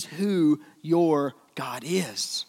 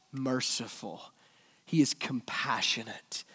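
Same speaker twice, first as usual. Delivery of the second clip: whisper; 4 semitones lower, 7 dB quieter than usual. Real, not acted. Preacher softening on God's traits.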